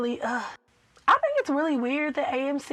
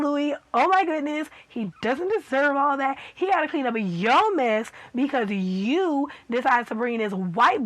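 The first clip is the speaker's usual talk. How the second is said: exasperated scolding; 3 semitones higher than usual. Pretend. Viewer scolding Louis for being cruel to Armand, exasperated. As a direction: tell him off like he should know better.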